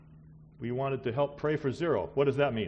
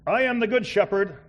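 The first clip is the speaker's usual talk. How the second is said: louder and higher, ringing out the verse; emphatic proclaiming; 9 semitones higher, 9 dB louder than usual. Shown as a demonstration. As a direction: proclaim it like good news to the room. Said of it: "But listen, look at it".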